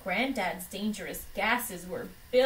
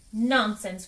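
a firm, louder Nonsense; growled; 6 dB louder than usual. Acted. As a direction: snap the word out like a cross doctor. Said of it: "growled Doctor Dog".

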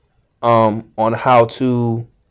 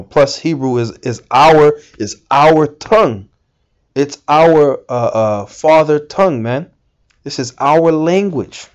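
fervent preaching; 3 semitones higher than usual. Real, not acted. Fervent preaching about Hebrew.

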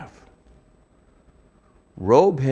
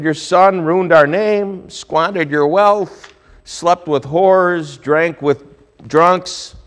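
slow, louder and higher complaint, each charge spelled out; indignant accusation; 6 semitones higher, 4 dB louder, much slower than usual. Acted. Elder son accuses father, slow indignant louder voice. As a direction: lay out every grievance, slowly and pointedly.

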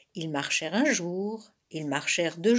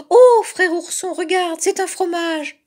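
loud, high cub's shout of discovery; excited cry; 9 semitones higher, 9 dB louder than usual. A narrator's reading. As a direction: call out to your brother, thrilled. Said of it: "cria-t-il". (cri excité et aigu d'ourson)

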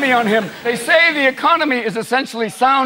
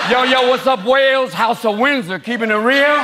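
hip hop hype man; 2 semitones higher than usual. Pretend. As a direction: hype the crowd. Hip hop crowd greeting.

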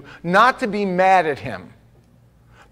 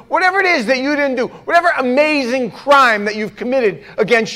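mock angry rant.

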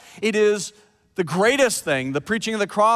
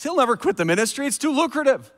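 much higher, pleading don't click it; urgent warning; 9 semitones higher, faster than usual. Retold or imitated. Husband urgently warning his wife off a fake news story, high and pleading. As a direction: warn your wife off the story, voice jumping up. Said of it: "I said".

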